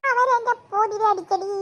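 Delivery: mock-sobbing complaint; crying. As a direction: whine it out through acted tears. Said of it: "നീ എന്തിനാ കരയുന്നേ".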